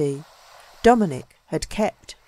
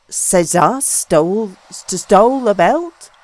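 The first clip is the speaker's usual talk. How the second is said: bewildered stammer; 2 semitones higher, 6 dB louder than usual. A narrator's reading. Young man stammers at the news of theft, bewildered. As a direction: trip over the words in shock. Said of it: "I stammered out, bewildered".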